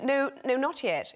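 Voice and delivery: lightly acted call to a dolphin; mock movie command. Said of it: "where I say to the, to the dolphin".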